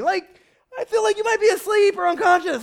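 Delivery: real yell at the congregation. Real, not acted. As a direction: shout it at a sleepy crowd. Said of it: "I can't yell anymore".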